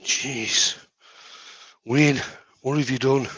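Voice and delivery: straining at a stuck lid; strained words while twisting a lid; opening a stuck jar. Real, not acted. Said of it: "No, I can't get the lid off".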